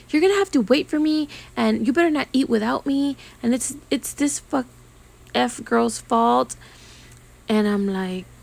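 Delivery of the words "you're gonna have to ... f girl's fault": mock bossy client voice, a bit higher; imitating the client. Client griping to someone on the phone, mock bossy. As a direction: play the client barking into her phone. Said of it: "she's saying all these bad words".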